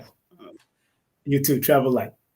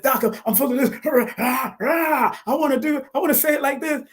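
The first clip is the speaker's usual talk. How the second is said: eager rush; 11 semitones higher than usual. Retold or imitated. Guest recalling telling his mentor his excitement, high and eager. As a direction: pitch jumps much higher, bursting with eagerness. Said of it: "and I, I said".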